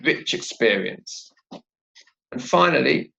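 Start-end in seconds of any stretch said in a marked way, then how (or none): 0.0-1.3 "Rich experience" low and slow, ch linked into the vowel; "Rich experience" joined as one, falling at the end; linked words. Shown as a demonstration. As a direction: glide from "Rich" straight into "experience". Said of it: "those two sounds together".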